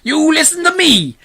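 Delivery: high, forceful demand; loud interrogating call; police chief's shout. A narrator's reading. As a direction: shout up through cupped hands. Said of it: "cupping his hands over to his mouth".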